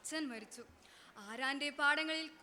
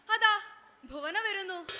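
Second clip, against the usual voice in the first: calling out; 6 semitones higher, 8 dB louder than usual. Acted. Storyteller calls attention.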